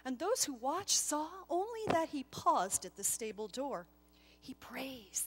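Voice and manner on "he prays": soft hushed murmur among onlookers; whispered. A narrator's reading. Onlookers at the stable door, hushed whisper. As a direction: lean in and breathe it softly. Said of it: "they whispered to one another".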